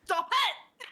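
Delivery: high, loud Irish lilt slipping out; Irish-sounding accent. Pretend. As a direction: yell it in an accidental Irish accent. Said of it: "every time I try and do a Scot".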